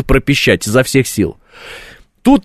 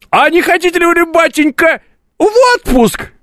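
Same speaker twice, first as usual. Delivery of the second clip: put-on high, sugary old-fashioned boss; sly boss voice; 12 semitones higher than usual. Boss offers a vacation.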